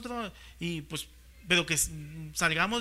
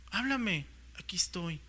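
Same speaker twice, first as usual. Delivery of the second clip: quiet repeat; 5 dB quieter than usual. Retold or imitated. Repeats the exchange softly.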